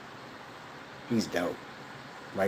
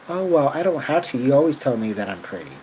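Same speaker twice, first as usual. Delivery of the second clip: higher, louder imitating the girlfriend; mock girlfriend voice; 5 semitones higher, 5 dB louder than usual. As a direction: mimic her breezy excuse, pitched up. Retelling ex girlfriend's reply.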